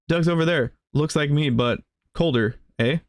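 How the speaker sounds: lightly voiced chatty villager, eh-style lilt; cheerful Canadian villager. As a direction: play the friendly folksy villager asking for help. Villager introducing his brother.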